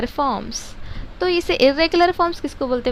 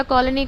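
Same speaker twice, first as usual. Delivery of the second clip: कॉलोनी in three separate parts, कॉ, लो, नी; divided into syllables. Shown as a demonstration. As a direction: break कॉलोनी after each syllable. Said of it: "उसको कॉलोनी ऐसा पढ़ना पड़ता". (कॉलोनी को तीन हिस्सों में बाँटकर)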